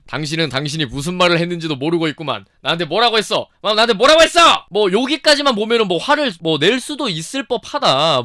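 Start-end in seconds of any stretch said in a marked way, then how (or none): 0.1-4.6 retold angry confrontation. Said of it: "얼굴을 들이밀면서 화를 냅니다".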